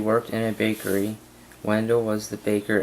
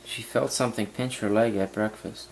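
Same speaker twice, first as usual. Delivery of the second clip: "breakfast" falling at the period; voice going down. Real, not acted. Student copying the teacher's period reading, voice going down. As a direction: end "breakfast" on a downward tune. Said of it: "you made your voice go down at the period".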